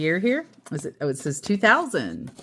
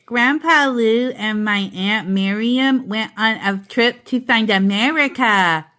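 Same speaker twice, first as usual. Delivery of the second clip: lightly voiced toddler, a bit higher; little Tommy explaining; 4 semitones higher, 5 dB louder than usual. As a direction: explain it like a small boy.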